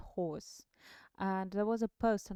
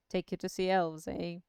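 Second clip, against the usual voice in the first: put-on amused old wizard; old man voice; 3 semitones lower, 5 dB louder than usual. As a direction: lower wizard voice. Gandalf voice in reading.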